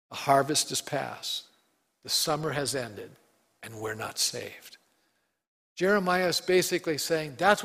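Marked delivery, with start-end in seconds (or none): 0.1-4.8 sad. Acted. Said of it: "This is really a sad verse".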